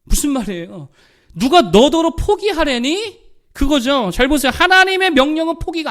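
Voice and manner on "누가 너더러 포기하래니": high, loud, drawn-out challenge; indignant rebuke. Acted. The Lord challenges Joshua for giving up, indignant rebuke. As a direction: demand it like an affronted commander.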